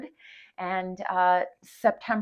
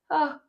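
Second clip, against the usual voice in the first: a real sneeze; sudden sneeze; sneezing; 6 semitones higher than usual. Real, not acted. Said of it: "that sneeze was at the most perfect time".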